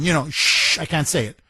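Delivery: normal talking voice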